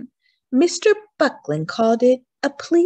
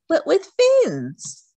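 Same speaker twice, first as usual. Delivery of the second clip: slow; 9 semitones higher, 5 dB louder, much slower than usual. Acted. Rich man explaining.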